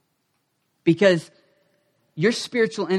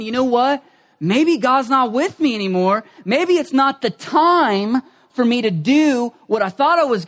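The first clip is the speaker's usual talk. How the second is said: higher, louder self-pitying lament; higher hammed-up moping; mock discouraged whine; 5 semitones higher, 4 dB louder than usual. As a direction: act out the sorry-for-myself complainer. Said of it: "you start going".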